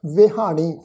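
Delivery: slow, measured Gurbani recitation with drawn-out vowels; scripture recitation. Shown as a demonstration. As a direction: recite the sacred line word by word, stretching the endings. Recites the verse for students. (ਹੌਲੀ, ਲਮਕਾ ਕੇ ਗੁਰਬਾਣੀ ਪਾਠ)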